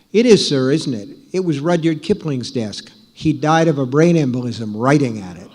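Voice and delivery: put-on half-hearted British accent, voice lifting a little; attempted British accent. British desk clerk answers the writer about the gorgeous desk, attempted British accent. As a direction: imitate a British hotel clerk without really managing the accent. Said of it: "I can't do the British accent".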